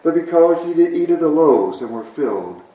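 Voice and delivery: measured, formal Bible reading voice; scripture reading. Acted. Preacher reading scripture to the congregation, solemn. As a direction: read the passage with reverent weight. Reads scripture aloud, then blessing.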